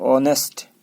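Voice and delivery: ऑनेस्ट opening straight on O; silent H. Shown as a demonstration. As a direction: begin ऑनेस्ट with the vowel, no breath of H. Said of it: "ओ से start करना है".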